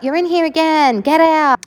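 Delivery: high-pitched, fed-up mock outburst; retold exasperated demand. Child ordering brother out yet again, retold exasperation. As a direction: replay an exasperated order to leave.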